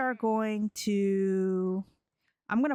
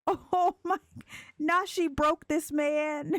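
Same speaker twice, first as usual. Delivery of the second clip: highly amused; 7 semitones higher than usual. Real, not acted. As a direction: squeal it on the edge of laughter. Laughing at the heartbroken character.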